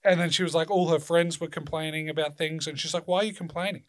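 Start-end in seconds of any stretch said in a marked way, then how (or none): 3.1-3.8 mildly exasperated, higher-pitched retort; short. Retold or imitated. Retelling how the transitioned friend answered complaining friends, short and higher-pitched. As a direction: imitate someone cutting a complaint short. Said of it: "she was being short".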